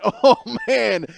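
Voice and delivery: high, loud groan of a burning gulp; mock-agonized yell. Teenager reacting to a stolen gulp, mock-agonized yell. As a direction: yelp it like you swallowed fire. Acting out reaction to strong drink.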